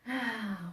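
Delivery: short breathy sigh out; yoga exhale; audible exhale. Shown as a demonstration. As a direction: let the held breath go.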